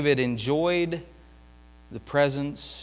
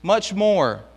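anguished plea; 8 semitones higher, 8 dB louder, slower than usual. Acted. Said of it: "David is crying out to God".

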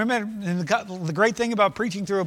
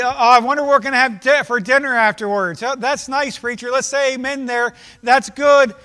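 mock distracted churchgoer; 3 semitones higher, 6 dB louder than usual. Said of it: "Modern day".

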